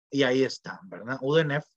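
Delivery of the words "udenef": "udenef" con una E entre D, N y F; pronunciación con E. Shown as a demonstration. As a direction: di "udenef" metiendo vocales E de apoyo. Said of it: "así se lee". ("udenef", lectura egiptológica convencional)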